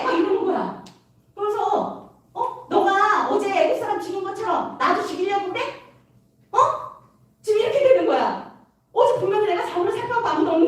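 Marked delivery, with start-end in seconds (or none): 2.3-7.6 higher-pitched mock accusation; angry retort. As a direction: act out an indignant man challenging his accuser. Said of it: "막 화가 난 거예요". (화난 사람처럼 높은 목소리로 따지듯이)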